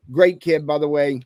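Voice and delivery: talking with food in mouth; words around a mouthful; mouth full. Real, not acted. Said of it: "sorry, I had something in my mouth".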